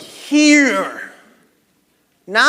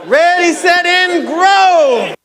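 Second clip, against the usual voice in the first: loud countdown; 4 semitones higher, 5 dB louder, slower than usual. Real, not acted. Coach starting the shout.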